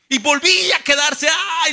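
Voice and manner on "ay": drawn-out "ay" of imitated pain; acted cry of pain. El hermano Panchito con los dolores, acted pained groan. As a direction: act out the pains returning. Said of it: "los dolores".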